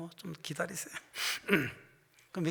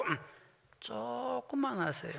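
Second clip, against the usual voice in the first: 천천히 강조; 5 semitones higher, 4 dB quieter, slower than usual. Shown as a demonstration. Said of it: "그대로 얘기하세요".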